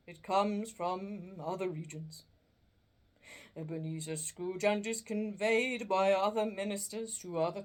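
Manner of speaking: a restless ghost warning of endless wandering; doleful ghost. Acted. Marley's ghost telling Scrooge it cannot rest, mournful.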